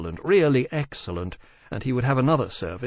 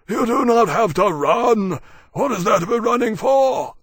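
dragon Maximus, bellowing; 11 semitones higher, 8 dB louder than usual. Acted. Maximus to running Berkeley, loud and incredulous.

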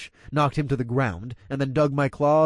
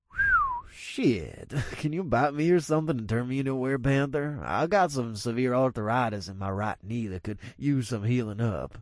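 put-on laughing older man.

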